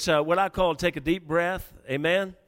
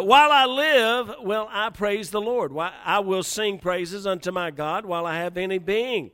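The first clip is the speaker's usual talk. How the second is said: excited praise; 3 semitones higher, 4 dB louder than usual. Shown as a demonstration. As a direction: proclaim joyfully. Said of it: "He's excited".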